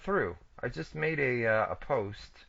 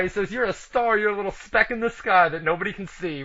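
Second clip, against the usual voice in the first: excited; 6 semitones higher than usual. Real, not acted. Excitedly relays cohost's burn.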